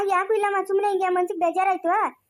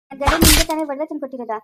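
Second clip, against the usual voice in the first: accusing shout; 2 semitones lower, 6 dB louder than usual. Acted. Jealous quarrel with the ghost.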